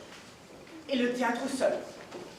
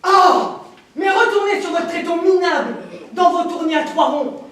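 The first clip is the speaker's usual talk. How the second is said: scornful shout; 5 semitones higher, 8 dB louder than usual. Acted. Minister scorns the actors.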